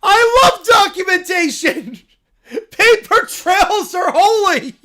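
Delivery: high, loud, slow cartoon bear voice; a cub thrilled by the news; excited little bear. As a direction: squeal it like an overjoyed cub. Bear character shouting.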